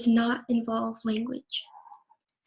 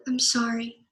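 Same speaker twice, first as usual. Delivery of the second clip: sincere. Shown as a demonstration. Speaker shows how a sincere sorry sounds, sincere. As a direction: apologize sincerely and without force. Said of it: "One of them is sincere".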